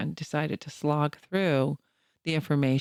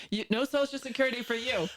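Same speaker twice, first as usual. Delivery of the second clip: laughing; 6 semitones higher than usual. Pretend. Joking denial.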